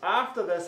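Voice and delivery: "After this" hit firmly at the verse's start; emphatic "After this". Real, not acted. Preacher rereading verse seven to make his point, emphatic "After this". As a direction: stress "After this" as the key words. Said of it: "I'm putting the emphasis on after this".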